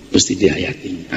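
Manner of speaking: a hushed second Mesti dihayati; soft repeat. Shown as a demonstration. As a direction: echo it quietly to let it sink in.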